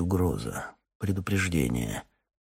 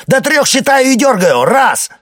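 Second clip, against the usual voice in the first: furious, much higher, much louder yell; 13 dB louder than usual. Acted. Boyko yells at the captain to return the idol, furious. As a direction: scream the order with a gun on the line. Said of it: "орёт Бойко".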